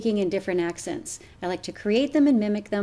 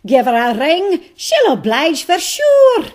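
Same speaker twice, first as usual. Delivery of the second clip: put-on loud, high Irish accent; cheerful loud Irish accent, slowing at the end; 8 semitones higher, 11 dB louder than usual. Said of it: "someone Irish".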